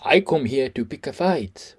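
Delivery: drawn-out imitation of broken-English foreign accent; put-on foreigner's accent. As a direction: mimic a fighter faking a foreigner's accent. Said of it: "Why is he talking in this accent".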